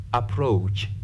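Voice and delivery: Approach, weight on the second syllable; stress on second syllable. Shown as a demonstration. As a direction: lean on the "proach" of "Approach". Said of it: "stress the second".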